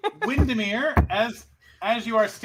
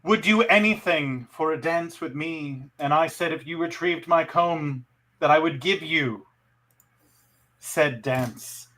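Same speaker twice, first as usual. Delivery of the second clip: sultry narrator. Acted. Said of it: "in your sultry voice".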